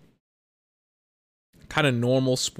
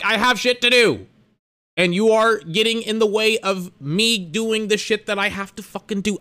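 imitated angry retort; 6 semitones higher than usual. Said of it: "'Cause I'm like".

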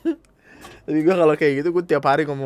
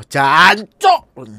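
"jancok" barked out much louder, falling hard on the end; Javanese curse; 4 semitones higher, 12 dB louder than usual. Shown as a demonstration. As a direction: spit out "jancok" as a loud Javanese swear. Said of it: "kita tidak sambat, kita mesoh".

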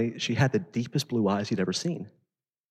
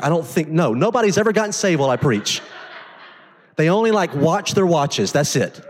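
high, loud, driving sermon voice; preaching at full force; 9 semitones higher, 5 dB louder than usual. Acted. Pastor rouses the congregation about Samaritan testimony, full-force preaching. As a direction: preach it hard to the room.

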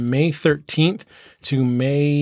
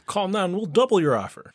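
infomercial; 6 semitones higher than usual. Pretend. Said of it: "But wait, there's more".

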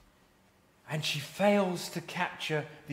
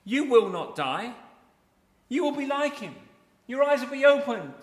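louder, higher tempter's lines; forceful counterclaims; 5 semitones higher, 3 dB louder than usual. Acted. Preacher acting Satan tempting Eve, louder. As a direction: press each lie home.

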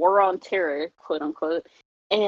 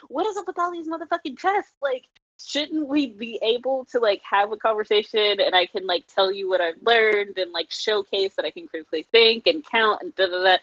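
put-on exasperated teen rant; 3 semitones higher than usual. Teen self ranting about tests.

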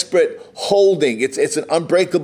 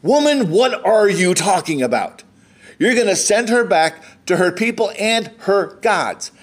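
exasperated scolding; 4 semitones higher than usual. Acted. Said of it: "shake some sense into her".

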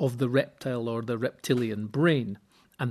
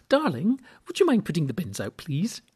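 sweet wife asking; 4 semitones higher than usual. Retold or imitated. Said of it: "they usually go".

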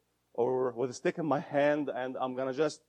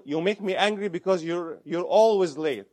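accusing, louder on always; blaming example; 3 semitones higher, 5 dB louder than usual. Shown as a demonstration. Therapist voicing a blaming partner, accusing and louder. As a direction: throw the blame at them. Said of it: "What's wrong here?".

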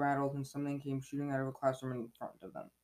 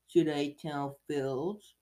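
slow, drawn-out teasing; taunting Peeves; 5 dB louder, much slower than usual. Acted. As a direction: toy with them slowly. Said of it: "said Peeves".

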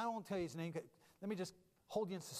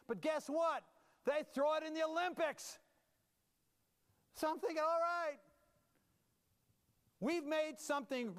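excited build; 6 semitones higher than usual. Acted. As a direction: preach it like you can't believe it's real. Pastor builds to amazed exclamation.

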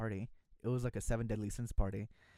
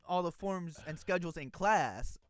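slow, emphatic, a bit higher; director insisting; 4 semitones higher, 5 dB louder, much slower than usual. Retold or imitated. Director insisting he handed out forms, slow and emphatic. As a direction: spell it out like an exasperated teacher.

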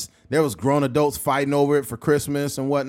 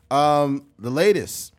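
normal talking voice

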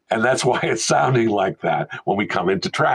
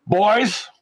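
stern; 10 semitones higher than usual. Retold or imitated. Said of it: "you know, very stern".

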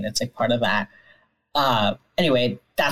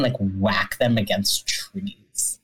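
hushed aside; 5 semitones lower, much slower than usual. Real, not acted. Grim detail told softly.

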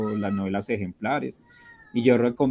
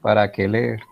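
incredulous echo; 5 dB louder than usual. Retold or imitated. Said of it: "Ay, Dios mío".

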